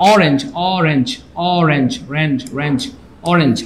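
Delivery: অরেঞ্জ repeated with the opening অ vowel stressed; sound demonstration. Shown as a demonstration. Teacher showing students the vowel sound, slow sounding-out. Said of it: "অরেঞ্জের সাউন্ডটা কিন্তু অ".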